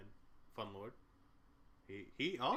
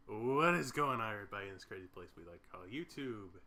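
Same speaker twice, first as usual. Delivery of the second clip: YouTuber voice; 3 semitones lower than usual. Pretend. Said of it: "Put your YouTuber voice on".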